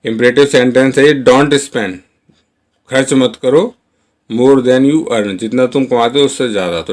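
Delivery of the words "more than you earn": slow model sentence. Shown as a demonstration. Teacher modelling the English line for Hindi learners, very slow. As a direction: say each word slowly and clearly. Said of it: "teacher models English sentence".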